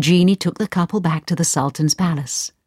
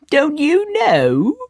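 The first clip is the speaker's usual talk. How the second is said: oil seller, surprised; 10 semitones higher, much slower than usual. Acted. Oil seller answers mother.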